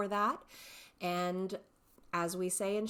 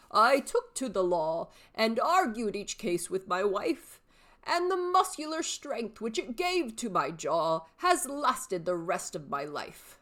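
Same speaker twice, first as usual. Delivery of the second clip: a hint of a cheeky old man, a bit louder; old father; 4 dB louder than usual. Shown as a demonstration. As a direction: answer your son with sly pride. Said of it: "three distinct character voices".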